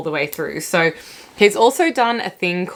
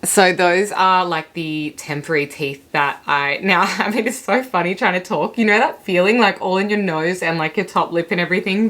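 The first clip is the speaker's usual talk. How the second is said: numb from the dentist. Real, not acted. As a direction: talk through a numbed mouth. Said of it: "I can barely talk 'cause my mouth is so numb still".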